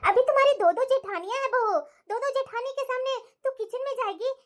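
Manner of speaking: fussy, loving mother-in-law scolding gently; doting mother-in-law. Acted. Mother-in-law stops her new daughter-in-law making tea, doting. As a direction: coddle the new bride like a fussing mother-in-law.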